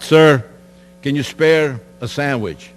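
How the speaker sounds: mild imitation of yelling up to a guard; retold yelling out. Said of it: "we used to yell out".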